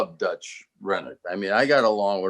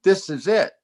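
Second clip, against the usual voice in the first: pitched up and pressing; second call, higher than the first; higher, more insistent; 7 semitones higher than usual. Retold or imitated. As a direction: push it harder, higher. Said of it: "I said".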